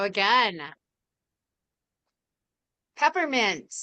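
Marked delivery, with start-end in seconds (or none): 3.0-3.7 higher sing-song call; bingo caller. Acted. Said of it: "Okay, next call".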